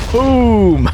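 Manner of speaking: cheering as the creeper blows up; imitated explosion. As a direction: shout a gleeful blast sound. Creeper blows up, voicing blast.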